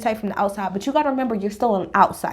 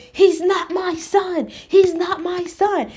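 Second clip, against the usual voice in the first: higher, slow, dismissive mock voice; mocking Todd; 7 semitones higher, much slower than usual. Todd's line mocked in retelling.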